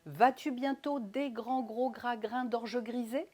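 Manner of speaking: slow tongue twister climbing to a rise on "grisé"; over-articulated question ending high on "grisé"; questioning intonation. Shown as a demonstration. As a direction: ask it deliberately, lifting "grisé" at the end. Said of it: "C'est une question".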